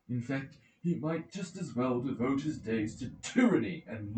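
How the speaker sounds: a lightly voiced elder orator, building indignation; indignant old counsellor. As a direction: speak up to shame the silent citizens. Mentor addresses the assembly.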